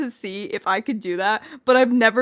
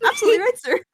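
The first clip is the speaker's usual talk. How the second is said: put-on cutesy baby talk; 12 semitones higher, 5 dB louder, much faster than usual. Voice imitation bit.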